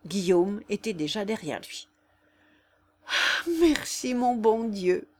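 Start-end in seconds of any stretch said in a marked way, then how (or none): 3.1-5.1 high, slow cry of relief; relieved cry. Acted. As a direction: cry out thanking God. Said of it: "s'écria Jeanne".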